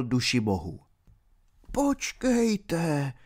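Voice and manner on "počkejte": put-on high, soft pleading old pilgrim; trembling pilgrim. A narrator's reading. Old pilgrim begging the baron to wait, soft and high. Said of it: "řekl rozechvělý poutníkův hlas".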